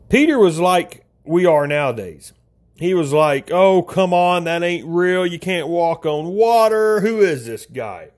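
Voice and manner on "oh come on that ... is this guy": lightly voiced skeptic; mild doubting. Doubting Peter questions what he sees on the water, mildly incredulous. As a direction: scoff mildly, imitating a doubter. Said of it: "Doubting Peter here".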